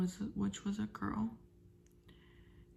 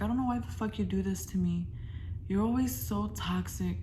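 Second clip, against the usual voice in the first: imitating angry rant; faster than usual. Acting out her own fight.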